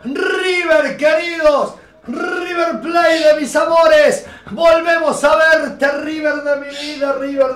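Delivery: drawn-out loving shout to the team; passionate fan cheer. Real, not acted. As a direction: call out like a stadium chant. Hailing his team at kickoff.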